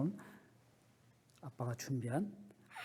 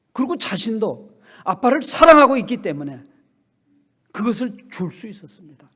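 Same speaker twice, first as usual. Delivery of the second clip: loud, higher sermon exhortation; full-force preaching; 8 semitones higher, 19 dB louder than usual. Acted. Pastor presses the congregation on what they cling to, preaching hard. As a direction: preach it to the back pews.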